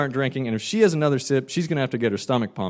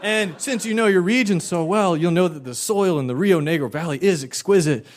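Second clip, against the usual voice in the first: wine salesman; 3 semitones higher than usual. Retold or imitated. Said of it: "I was like".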